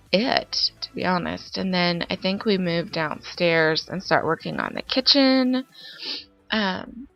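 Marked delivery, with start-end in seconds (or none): 1.6-7.1 stuffy, congested voice; talking through a blocked nose. Real, not acted. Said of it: "so if I sound congested".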